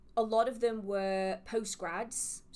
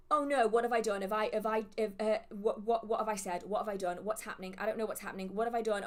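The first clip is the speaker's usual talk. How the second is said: mock panic; 3 dB louder, faster than usual. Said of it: "Oh my God, I'm panicking".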